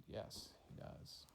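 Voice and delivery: softly whispered answer. Acted. Girl answering the queen about the rabbit, whispered. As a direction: breathe the words out.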